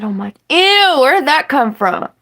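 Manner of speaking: high, loud mock disgust; replaying her own shocked "ew"; grossed-out surprise. Retelling her reaction to a nasty surprise, high and disgusted. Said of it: "I said".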